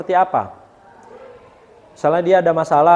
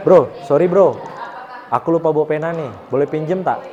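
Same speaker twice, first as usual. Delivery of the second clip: casual polite ask; 2 semitones lower than usual. Shown as a demonstration. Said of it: "bahasa sehari-hari aja".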